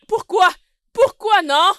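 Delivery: loud indignant why; outraged at being shorted; angry demand. Acted. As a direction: bark out why. Demanding money angrily.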